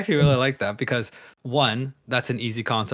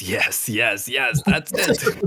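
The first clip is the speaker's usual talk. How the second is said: mad scientist; 3 dB louder, much slower than usual. Retold or imitated. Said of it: "like a mad scientist".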